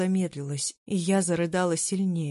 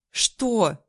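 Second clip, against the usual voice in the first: sharp loud bark; snapped; 4 semitones higher, 5 dB louder than usual. A narrator's reading. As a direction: snap it out angrily. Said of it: "рявкнула я". (резко рявкнуть)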